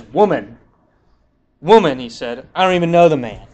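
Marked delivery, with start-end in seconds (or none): 0.0-2.0 louder, forceful WOMAN, WOMAN; mock-indignant push back; heated retold denial. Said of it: "I love how Peter says". 2.5-3.5 louder, emphatic denial with stress on know; mock-indignant Peter snapping back; heated retold denial; forceful denial. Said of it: "I love how Peter says".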